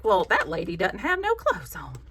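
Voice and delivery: put-on slow, drawn-out Southern accent. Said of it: "I say that in a Southern voice".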